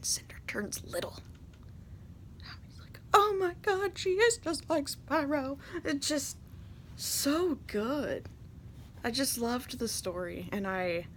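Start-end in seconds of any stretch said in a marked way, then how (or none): 3.1-8.3 breathy, slow stunned whisper; awed whisper. Retold or imitated. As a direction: whisper it in wonder at the screen. Awed at cutscene twist.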